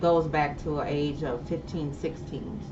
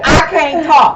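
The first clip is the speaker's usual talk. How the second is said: laughing; 9 semitones higher, 13 dB louder, slower than usual. Real, not acted. Laughing fit on air.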